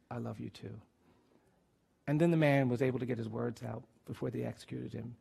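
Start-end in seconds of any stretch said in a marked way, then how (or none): 0.1-0.8 very soft, low and tender; gentle near-whisper, no hesitation; retold whisper. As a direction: say it hushed and smooth, as into an ear. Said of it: "he whispered flawlessly in my ear".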